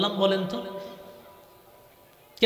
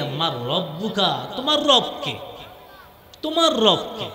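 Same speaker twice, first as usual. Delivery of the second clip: the grave question. Acted.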